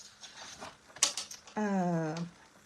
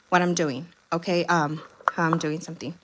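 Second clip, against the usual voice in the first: slightly out of breath talking; catching breath between words; after a workout; 2 semitones lower, 4 dB louder than usual. Real, not acted. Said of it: "I'm still catching my breath".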